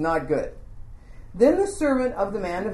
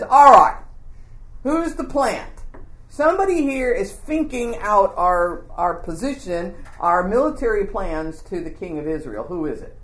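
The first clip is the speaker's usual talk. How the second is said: angry demand. Acted. Angry king of Syria demanding the spy among his men. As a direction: bark it out, then grill them.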